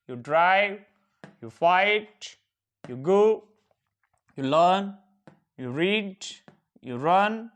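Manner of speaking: steady, even practice drill; drill recitation. Shown as a demonstration. Teacher drilling verb forms for students to repeat. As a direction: recite each pair clearly for the class. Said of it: "practice बोलिए".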